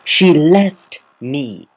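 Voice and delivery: loud, slow, anguished cry; almost shriek it out in tears; tearful high scream; near shriek. A narrator's reading. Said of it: "Rainbow Dash almost shrieked".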